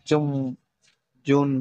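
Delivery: "জুম, জুন" with a lightly buzzed first consonant; lightly vibrated sound. Shown as a demonstration. Teacher giving examples, lightly vibrating start on "জুম, জুন". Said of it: "হালকা কম্পনের উচ্চারণের সাথে".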